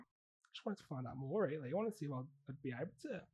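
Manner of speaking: softly spoken put-on Aussie accent; Australian accent. Caller explaining why fostering feels right, Australian accent. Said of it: "I'm actually from Australia".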